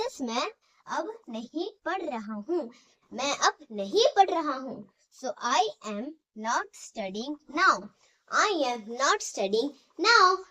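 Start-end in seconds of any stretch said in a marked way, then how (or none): 5.2-10.4 very slow, word by word, for students to write; slow dictation. Shown as a demonstration. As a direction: spell it out slowly so the class can copy. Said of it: "dictation to students".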